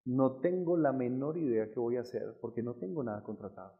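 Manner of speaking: soft, subdued plea; retold kneeling prayer. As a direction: pray quietly, admitting you are at a loss. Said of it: "arrodillado, diciéndole".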